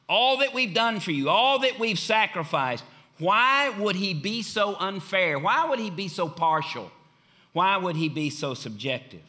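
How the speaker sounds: resentful, feeling unfairly passed over; hurt complaint that settles down by the end; offended and hurt. Retold or imitated. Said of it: "She was offended, hurt".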